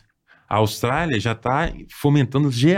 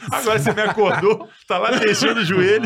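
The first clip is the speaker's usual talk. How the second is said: rudely awakened; 9 semitones higher than usual. Retold or imitated. Woken by knee knock, retold.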